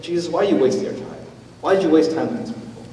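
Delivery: quick, high plea to Jesus; urgent questioning. Retold or imitated. Pastor asking Jesus quickly and urgently. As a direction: press the question fast and pleading. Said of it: "as I ask that question".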